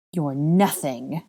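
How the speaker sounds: slow, drawn-out menace; a restrained villain's growl; growled contempt. Acted. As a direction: grind the captive down slowly. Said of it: "Bellatrix growled".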